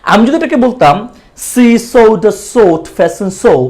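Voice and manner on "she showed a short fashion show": Dhakaiya accent, every sh turned into s; mock Dhakaiya "see sowed a sort fesson sow". Shown as a demonstration. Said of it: "Dhakaiya accent হয়ে যেত".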